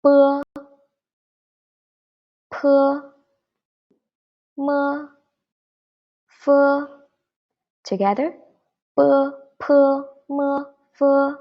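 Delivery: bo, po, mo, fo each said high and clear with pauses; pinyin bo po mo fo. Shown as a demonstration. Teacher drills the first row for the class, high and clear. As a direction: drill bo po mo fo slowly for repetition. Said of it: "let's go through the first line".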